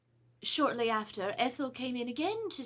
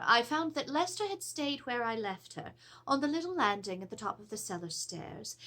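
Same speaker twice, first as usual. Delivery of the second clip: plain reading voice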